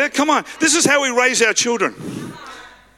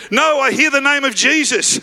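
higher-pitched acted excitement; excited realisation; 5 semitones higher than usual. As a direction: play a beggar catching sudden news. Beggar suddenly hears Jesus is coming.

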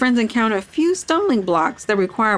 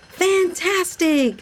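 much higher, slow drawn-out delight; happy exclamation; 10 semitones higher, much slower than usual. A narrator's reading. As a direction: stretch it out joyfully. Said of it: "Henry exclaimed happily".

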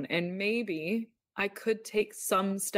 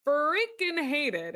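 freaking hated drawn out, higher and louder; stress on hated; 8 semitones higher, 3 dB louder, much slower than usual. Real, not acted. Telling how much she loathed the job, stretched emphasis. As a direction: lean hard and slow into freaking hated.

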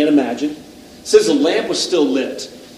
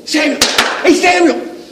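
high, happy, eager call; joyful; 13 semitones higher, 5 dB louder than usual. Shown as a demonstration. God wakes Samuel with a smile, joyful call. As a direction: call the name with delight, glad to find them. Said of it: "I wonder if it's with joy".

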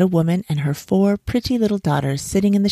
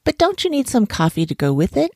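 high, coaxing question; polite monkey's sly suggestion; feigned friendliness; 7 semitones higher than usual. A narrator's reading. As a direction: offer it sweetly, pitch lifted. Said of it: "pretending to be very polite and friendly".

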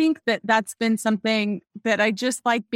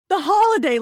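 put-on frustrated kid; 8 semitones higher, 4 dB louder than usual. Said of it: "He goes".

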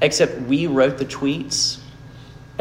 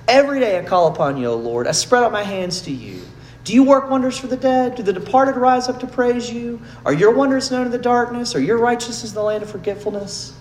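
higher, louder, accusing cry to God; angry lament; 9 semitones higher, 4 dB louder than usual. Retold or imitated. Preacher reading a psalm aloud, higher and louder in anger. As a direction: read the psalm as a raw, angry complaint at God. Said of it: "Hear that anger?".

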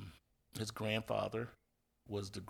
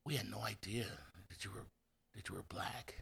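hushed awkward surprise; 8 dB quieter than usual. Retold or imitated. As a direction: trail off into a near whisper, awkwardly. Superintendent's awkward surprise, retold.

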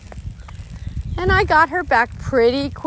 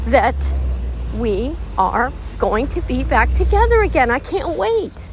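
happy praise. Retold or imitated. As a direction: lift the pitch and gush with gratitude. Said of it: "That's the energy I put out".

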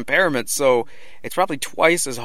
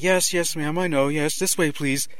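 higher, lightly imitated placating voice; mock brush-off; 5 semitones higher than usual. Crew ignore a panicking woman asking for help, mock placating. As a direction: humour her without listening, lightly acted. Staff brushing off Kate Winslet.

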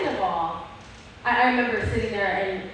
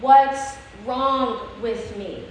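pleading question; 4 dB louder, much slower than usual. Retold or imitated. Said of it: "I looked at my mom and I said".

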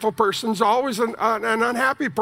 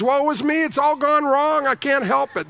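mock self-pity; 4 semitones higher than usual. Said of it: "your choice in life, choice number one is".

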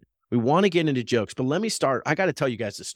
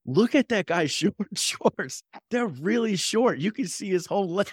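imitating gossiping ladies; 6 semitones higher than usual. Imitating gossiping older women.

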